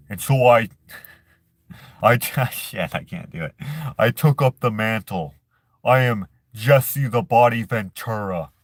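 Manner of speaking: attempted impression of a wrestler turned governor; Jesse Ventura. Vlogger attempting a governor impression for viewers, rough celebrity voice. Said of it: "I can't really do his voice".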